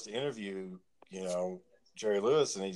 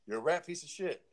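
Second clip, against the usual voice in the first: higher, jeering Tyson impression; mock Tyson insult; 8 semitones higher, 3 dB quieter than usual. Tyson insulting the reporter, higher jeering voice. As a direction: jeer like an angry boxer. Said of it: "and he's like".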